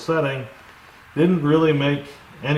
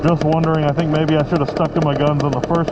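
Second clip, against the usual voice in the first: raised voice over engine noise; shouting over engine. Real, not acted. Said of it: "Hopefully you can hear me over the engine".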